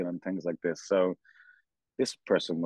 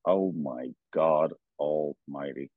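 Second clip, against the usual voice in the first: slow stunned awe; 5 semitones lower, much slower than usual. Retold or imitated. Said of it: "in my mind was just like".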